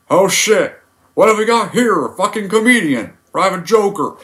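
high, loud drill sergeant bark; Sergeant Hartman. Retold or imitated. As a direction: berate the new recruit. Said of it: "where he meets Joker".

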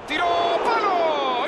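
quick urgent call; excited play-by-play. Real, not acted. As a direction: call the shot hitting the post. Shot hits the post.

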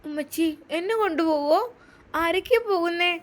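put-on a small child eagerly questioning her mother; little girl asking. Little daughter asking mother where they are going, lightly childlike.

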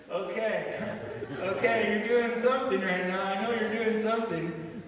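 excited. Retold or imitated. Man finding free food after praying, excited and amazed. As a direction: blurt it out, amazed and giddy. Awed outburst at the feast.

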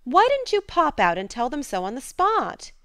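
indignant. A narrator's reading. Jo continues indignant.

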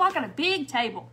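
boasting about the big table; proud boast. Real, not acted. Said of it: "Not really".

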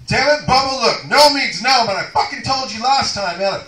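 loud high shouted protest; loud mock protest at Bubba the cellmate; angry refusal. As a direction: shout him off, fed up.

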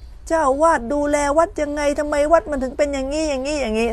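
high imitation of someone berating the temple; mock scolding. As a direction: blame the temple like an indignant visitor. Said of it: "ด่าไปถึงวัดอีก".

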